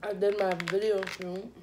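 talking through a mouthful of food; words around a bite of food; mouth full. Real, not acted. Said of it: "talking with my mouth full".

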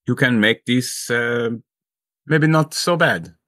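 pleading character voice. Acted. Doramus pleads with mayor.

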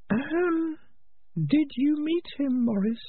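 high, sharp little rat voice; Peaches voice. Acted. Peaches tells Morris, in a high rat voice.

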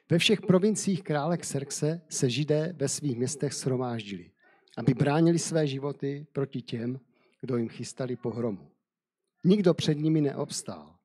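steady storyteller's reading voice; measured Bible story narration. Acted. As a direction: read the tale aloud to listeners. Reads Esther chapter nine.

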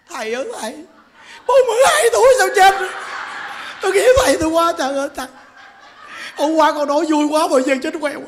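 high, fast, hammed-up wailing; mock wailing followers. Followers weeping over the monk, hammed-up high fast wailing. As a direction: play the weeping followers at full comic pitch.

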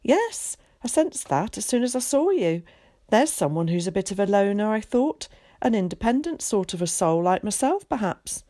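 a lightly voiced chatty, confident boy; eager boy Zack. Zack introducing himself to Willie, lightly voiced and breezy. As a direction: play a breezy, talkative schoolboy.

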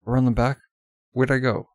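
loud pressing questions; forceful questions; urgent questioning. Acted. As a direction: demand an answer. Demanding direction.

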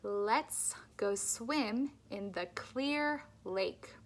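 slow, tongue out on each L; tongue sticking out. Shown as a demonstration. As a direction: say it with your tongue stuck out. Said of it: "Stick your tongue out and say".

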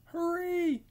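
high, loud hurry call; yelled. Acted. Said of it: "yelled seven to number eight".

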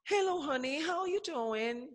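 high, soft imitation of a woman; mock a sweet woman's greeting softly and high; teacher imitating a woman's soft voice; women's voice. Shown as a demonstration. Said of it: "you hear women talk like this".

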